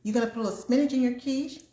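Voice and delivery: thinking it through, each item rising; retold musing. Retelling to viewers how she planned her quiche, musing aloud. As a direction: reenact working out an idea, lilting up on each ingredient. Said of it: "Then I thought".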